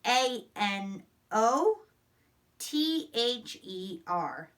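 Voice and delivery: letters spaced slowly and evenly; slow spelling out. Shown as a demonstration. Teacher spelling a sight word aloud slowly. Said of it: "practice our sight words".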